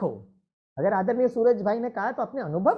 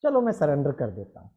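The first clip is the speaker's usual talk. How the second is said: giving in; 6 semitones lower than usual. Retold or imitated. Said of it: "वो भी बेचारा परेशान हो जाता है".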